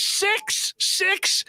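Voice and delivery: high-pitched mock disbelief; astonished echo. Boss hearing of the voicemails, high incredulous echo. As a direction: squeak out the number in acted amazement. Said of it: "he goes".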